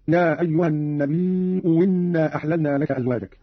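النبي إنا read "nabii'u winna"; hamza turned waw. Shown as a demonstration. Teacher shows the other way, إنا begun with a w. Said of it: "أو إبدالها واوا وصلا هكذا".

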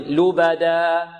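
"لبدا" with the last alif held two counts; two-count final vowel. Shown as a demonstration. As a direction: hold the final aa of "لبدا" briefly and evenly. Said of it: "بمقدار حركتين". ("لبدا" بمد الألف حركتين)

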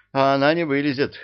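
fast, loud bark. A narrator's reading. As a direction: snap it back fast and loud. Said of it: "рявкнул он, закипая".

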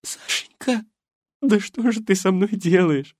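put-on high old woman scolding tenderly; old lady's voice. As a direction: fuss over him like a worried wife. Голос старушки. (жена отчитывает раненого мужа, высокий старческий голос)

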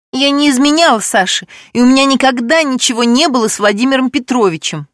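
high, loud shouted denial; shouting. Acted. Alexandra shouting her denial at everyone. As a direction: scream out her innocence. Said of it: "закричала Александра".

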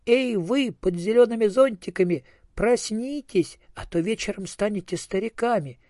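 high-pitched calling out to a crowd; urgent cry. A narrator's reading. Old cucumber warning the young ones, crying out. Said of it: "только и успел крикнуть".

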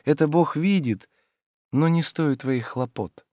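a lightly voiced tired man turning a friend away; Oblomov, weary refusal. A narrator's reading. Oblomov's voice in dialogue. (слегка озвученный усталый Обломов)

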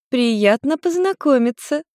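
high, slow, sweet mother voice; mother greeting her son's girlfriend; smiling mother. Acted. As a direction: greet the girl with a smile. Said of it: "улыбнулась Нарико".

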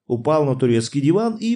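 usual speaking voice

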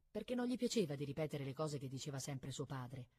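ordinary delivery

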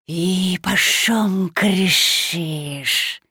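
slow booming hiss; hissing creature voice. Acted. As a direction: hiss it like a forest monster. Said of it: "гулкий шипящий голос".

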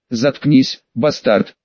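usual speaking voice

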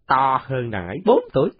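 put-on high, brash little boy; cocky kid. Còi asks the new boy his age, high and brash. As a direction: size him up with a squeak.

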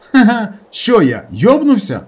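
laughing scoff. Acted. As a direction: laugh off the idea as crazy. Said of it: "засміявся він".

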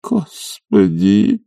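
long drawn-out groaning cry. Acted. Oblomov groaning at the doctor's advice, drawn out. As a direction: moan it out in despair, slowly. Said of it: "простонал Обломов".

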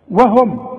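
"وهم" with thin, fronted "we"; light waw. Shown as a demonstration. Teacher models for a student, thin waw. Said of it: "وتنطق الواو مرققه".

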